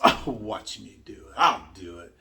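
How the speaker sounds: slow, hammed-up dare; lightly acted defiant boast; defiant challenger. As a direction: imitate someone rising to a challenge, slowly. Voices challenged risk-takers' defiant reaction.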